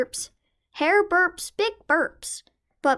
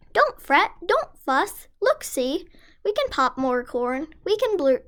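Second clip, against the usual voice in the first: squeaky mouse voice. Acted. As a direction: comfort him in a tiny voice. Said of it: "Mouse squeaks".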